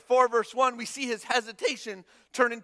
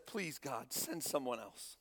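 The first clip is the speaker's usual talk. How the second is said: begging plea; 9 semitones lower, 13 dB quieter, slower than usual. Acted. Moses begging God off.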